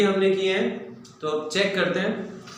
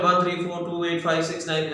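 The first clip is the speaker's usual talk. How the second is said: quick run of digits; brisk, fast digit dictation; rapid-fire; faster than usual. Shown as a demonstration. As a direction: rattle the numbers off one after another. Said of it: "ऐसा फटाफट से लिखना है".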